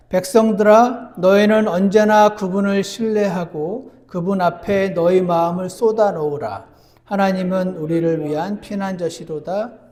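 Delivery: measured pulpit recitation; scripture reading. Acted.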